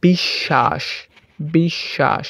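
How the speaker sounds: slow বিশ্বাস as "bish-shash"; doubled consonant. Shown as a demonstration. Teacher giving students another example, slow "bish-shash" for বিশ্বাস. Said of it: "শব্দ হবে দ্বিতীয় উচ্চারণ".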